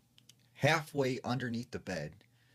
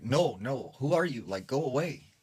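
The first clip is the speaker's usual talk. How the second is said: retold alarm, pitch jumping up; alarmed refusal; 4 semitones higher than usual. Mother confronts the voice under the bed, alarmed. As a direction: imitate a mother warding off a stranger, higher-pitched.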